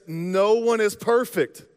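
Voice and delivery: slow and deliberate, gently firm; lovingly. Real, not acted. Pastor lovingly telling the congregation, slow and deliberate. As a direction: say it slowly like a kind pastor. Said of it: "just lovingly say".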